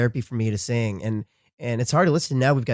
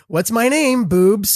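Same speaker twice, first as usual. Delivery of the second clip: nurse quizzing; 9 semitones higher, 6 dB louder, much slower than usual. Retold or imitated. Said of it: "she's going".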